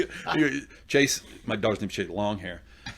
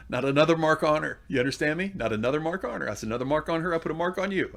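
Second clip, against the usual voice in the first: mildly menacing dad, pitched up; retold stern warning; 5 semitones higher than usual. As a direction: lay down the law, acted out. Acted threat to daughter's boyfriend.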